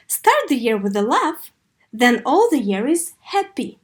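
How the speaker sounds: a teacher's model reading of the quote; model intonation. Shown as a demonstration. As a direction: clear phrase tune, falling on "happy". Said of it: "копировать интонацию".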